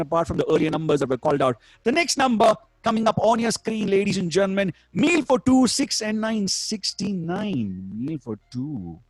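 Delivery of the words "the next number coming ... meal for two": bingo caller=1. Acted. Bingo number calls.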